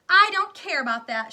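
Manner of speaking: high, very loud whine; bratty tantrum shout. Acted. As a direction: scream it at mummy. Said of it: "shouted Veruca".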